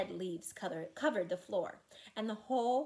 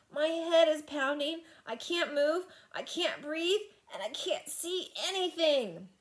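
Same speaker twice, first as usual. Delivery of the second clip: higher, louder pained complaint; panicky; 7 semitones higher, 4 dB louder than usual. Acted. Sam trapped in the dark, panicking. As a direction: list it in rising panic.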